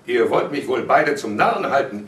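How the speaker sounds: feeling made a fool of; indignant father. A narrator's reading. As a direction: raise the voice in annoyance. Father turns angrily on both.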